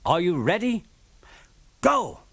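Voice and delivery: station master shouting ready then go; shouting the start. A narrator's reading. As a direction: call the race start, then belt out Go. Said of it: "The station master shouted".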